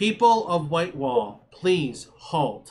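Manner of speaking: loud projected voice, as if through a horn. Voicing a character addressing an approaching mob through a horn: projecting voice, not shouting. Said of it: "but the horn projects her voice".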